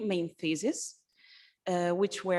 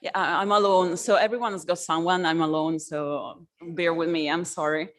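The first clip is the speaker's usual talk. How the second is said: stage fright; 5 dB louder than usual. Real, not acted. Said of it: "I'm a bit nervous".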